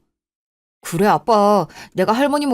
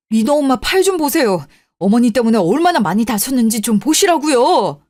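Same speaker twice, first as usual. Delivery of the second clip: angry scolding; 3 semitones higher than usual. Acted. Son to his mother after his wife is cut, heated scolding. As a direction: let the frustration spill over.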